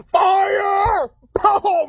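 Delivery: high, drawn-out yell; excited high-pitched holler; mock battle command. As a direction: call it out like a cartoon firing order. Acts out pianos being fired.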